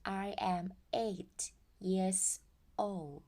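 put-on I am eight years old very slowly; teacher modelling slowly; slow model sentence. Shown as a demonstration. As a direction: stretch each word for learners. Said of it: "บอกอายุ".

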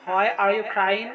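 very slow, each word stretched; slow model phrase. Shown as a demonstration. Teacher repeating the question slowly for students. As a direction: drag it out for learners.

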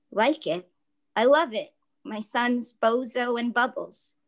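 sarcastic dad pretending to love the costumes; mock delight. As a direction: gush with obvious sarcasm.

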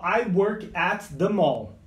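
slow model sentence. Shown as a demonstration. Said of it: "olha só".

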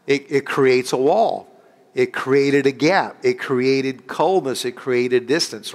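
slow, deliberate list of results; slow emphasis. Acted. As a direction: let each result land slowly. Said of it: "slow emphatic list".

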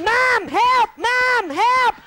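high, loud squeal for mum; mock yell for help. Little boy smothered while dancing, squealing high and loud for mum. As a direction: cry out like a trapped little boy. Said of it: "And I'd be yelling".

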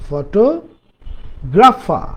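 ফটোগ্রাফার drawn out slowly, syllable by syllable; slow demo. Shown as a demonstration. Teacher slowly models ফটোগ্রাফার for students. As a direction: stretch out ফটোগ্রাফার for learners.

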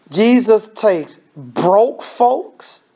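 very slow, each word weighed; preacher leaning hard on the point; slow emphatic preaching. Real, not acted. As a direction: drag it out so it lands. Preacher stresses key point.

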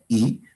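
"I" as a pure Spanish ee; vowel demonstration. Shown as a demonstration. Teacher points out each Quechua vowel, "I" as in Spanish. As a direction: give a clean, rising "I". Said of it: "aquí se pronuncia".

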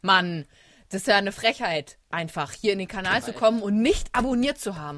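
loud, hammed-up indignation; mock outrage. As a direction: play up the scandalized scolding. Mock outrage at not subscribing.

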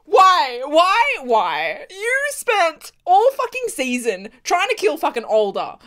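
high, pleading-mad questioning; exasperated rant. Real, not acted. Viewer berating a character, exasperated. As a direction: demand an answer, fed up.

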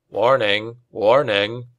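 calm machine alarm voice; grating, calm computer warning. A narrator's reading. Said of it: "a computer voice said with a grating calm".

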